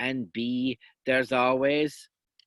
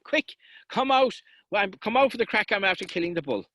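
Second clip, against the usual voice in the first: excited call; 4 semitones higher than usual. Acted. Brother calling the others out.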